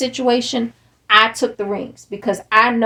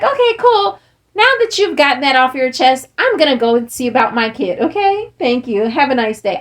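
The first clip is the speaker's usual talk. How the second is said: breezy brush-off. Retold or imitated. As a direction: sweetly dismiss him and leave. Retold brushing off the ex.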